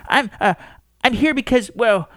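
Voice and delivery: searching for how to begin; nervous old man. Acted. Astronomer fumbles his reason for visiting, nervous.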